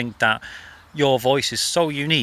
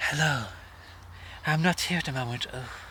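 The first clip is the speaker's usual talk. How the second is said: put-on upper-class voice; 9 dB quieter than usual. Imitating mum's answerphone greeting, in a posh Joanna Lumley voice. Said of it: "she used to put on like a Joanna Lumley".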